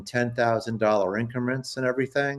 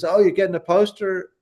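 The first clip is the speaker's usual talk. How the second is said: higher-pitched, curious friend's reaction; retold surprised question; 8 semitones higher than usual. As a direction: imitate a friend's sudden interest. Friend reacts to trip news.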